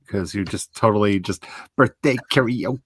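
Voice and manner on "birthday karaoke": surfer dude impression; lazy stoner surfer voice; Pauly Shore voice. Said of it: "sounded like you turned into Pauly Shore".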